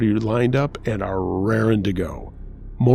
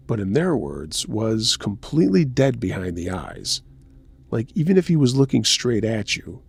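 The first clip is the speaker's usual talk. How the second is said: story narration. A narrator's reading. Host reading a listener's festival story to the audience, story narration. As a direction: narrate a true creepy tale, pausing between beats.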